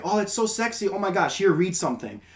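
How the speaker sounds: high, breathless fangirl gush; swooning roommate. Retold or imitated. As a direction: coo over the accent like a smitten girl.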